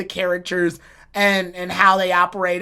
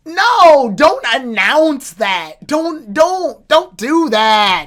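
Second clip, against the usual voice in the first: exasperated protest; 4 semitones higher, 5 dB louder, much slower than usual. Real, not acted. Pleading at the screen.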